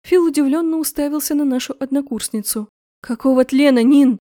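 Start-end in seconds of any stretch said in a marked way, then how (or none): 3.0-4.2 angry outburst, much louder; angry exclamation. A narrator's reading. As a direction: yell it at her in disbelief. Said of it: "воскликнула Бьянка, злясь".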